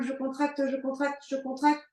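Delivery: squeezed words, breath held; holding breath. Real, not acted. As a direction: push words out without breathing. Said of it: "Je bloque mon souffle". (souffle bloqué, voix tendue)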